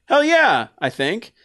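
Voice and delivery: high, loud "hell yeah"; excited cheer. Retold or imitated. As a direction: shout it like a pumped fan. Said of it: "and think".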